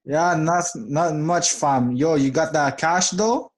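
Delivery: casual London street slang voice; London roadman accent. Pretend. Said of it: "We're not gonna talk like that".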